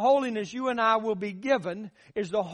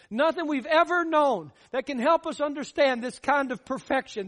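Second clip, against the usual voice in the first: rising preacher's insistence on help; emphatic repeat; 3 semitones higher than usual. Shown as a demonstration. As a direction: drive it home the second time. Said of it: "repeats the line with more force".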